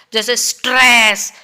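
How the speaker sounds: स्ट्रेस said slowly with a pressed, weighted push; stressed demo. Shown as a demonstration. Teacher showing students how to stress a word, pressing स्ट्रेस. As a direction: lean hard on स्ट्रेस, drawn out. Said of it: "बोल के दिखाती हूँ आपको".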